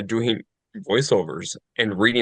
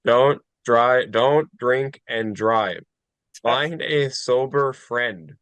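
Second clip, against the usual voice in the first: slow flat monotone PSA; much slower than usual. Pretend. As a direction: drag it out in a monotone. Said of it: "in a monotone".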